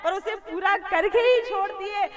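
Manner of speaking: mildly hammed-up defiant Yashoda; defiant mother. Yashoda defies the yogi, voiced. (ज़िद्दी मैया की तीखी आवाज़)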